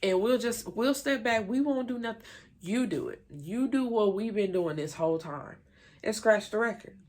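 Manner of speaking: high, sarcastic mock of a fed-up twin; Fallon, fed up. Fallon snapping at the group over the record, high mock sarcasm. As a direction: toss the whole record back at them, mocking. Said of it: "She's like".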